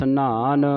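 ਨਾਨ said heavy, with a long aa; heavy pronunciation. Shown as a demonstration. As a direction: give ਨਾਨ a weighty, held sound. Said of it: "ਇਹਨੂੰ ਭਾਰਾ ਉਚਾਰਨ ਕਰਨਾ".

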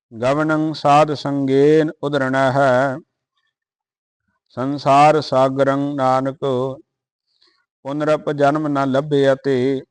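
measured, chanted Gurbani reading; steady devotional recitation; scripture recitation. Acted.

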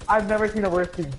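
high loud disbelieving shout; exasperated shout. Real, not acted. Yelling insult at enemies.

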